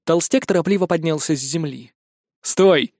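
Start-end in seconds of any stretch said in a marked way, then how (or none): 2.4-2.9 shouted stop. Acted. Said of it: "прокричал я".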